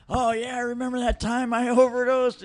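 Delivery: breezy chuckle at something dark; laughing offhand recall. Retold or imitated. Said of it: "and he's like".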